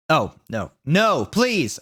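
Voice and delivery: rising high plea; begging. Acted. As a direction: beg him, climbing up on please. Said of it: "I begged".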